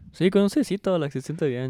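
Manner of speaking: lightly voiced eager oddball, starting high; crazy enthusiast. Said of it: "those crazy ass, they're like".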